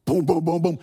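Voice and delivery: thudding "boom" noises; imitated banging. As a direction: voice the pounding in heavy thuds. Imitates banging once more.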